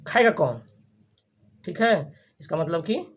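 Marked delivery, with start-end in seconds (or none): 0.1-0.6 खाएगा कौन with emphasis on opening खाएगा; stress on खाएगा. Shown as a demonstration. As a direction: press खाएगा, as if nobody will, in खाएगा कौन. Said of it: "खाएगा पर प्रेशर दे दे रहा है".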